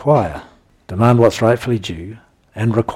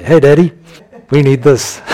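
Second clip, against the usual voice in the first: loud, much higher, bouncing eager call; eager child; 5 semitones higher, 8 dB louder than usual. Acted. Child cheerfully asking Daddy for what they need. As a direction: burst in like a happy kid to Dad. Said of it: "he gets excited when you turn up and say".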